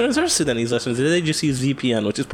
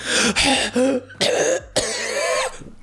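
exaggerated gasp; 13 semitones higher than usual. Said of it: "little nose whistle going on".

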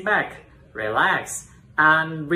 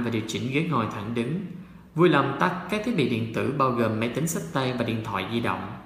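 flight attendant. Pretend. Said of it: "let's try the cabin crew public announcement".

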